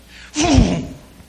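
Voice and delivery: loud whooshing engine noise; Jeep noise. Retold or imitated. Telling how he makes donuts, loud vehicle noise. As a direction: imitate a Jeep tearing round.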